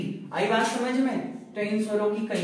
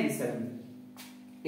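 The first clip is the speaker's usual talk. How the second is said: विसर्ग stretched very slow, low and soft; विसर्ग spoken slowly and quietly, syllable by syllable; drawn-out answer; 11 semitones lower, 13 dB quieter, much slower than usual. Shown as a demonstration. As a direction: draw out विसर्ग slowly so students repeat it. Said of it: "इन्हें क्या कहते हैं".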